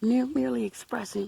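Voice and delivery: slurred groggy speech; groggy, words stumbling, real; talking funny. Real, not acted. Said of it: "I know I'm talking funny".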